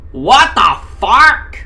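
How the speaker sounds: loud, high, drawn-out yell; startled yell. Acted. Ken yelling as he falls out of bed, high and loud. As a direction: shout it as you tumble out of bed. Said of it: "Ken yelled".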